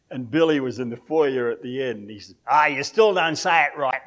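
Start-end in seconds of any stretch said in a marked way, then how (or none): 2.5-4.0 loud, higher-pitched playful jeer; mock heckle. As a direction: call it out as a teasing heckler. Congregant heckles the preacher in retold story.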